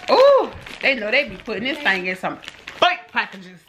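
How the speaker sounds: lilting mermaid voice. Pretend. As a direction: talk like a dreamy mermaid. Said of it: "Stop talking like a mermaid".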